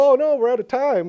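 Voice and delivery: high, loud mock cry of dismay; mock alarm. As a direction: exclaim in exaggerated, pretend panic. Mock alarm in quoted studio talk.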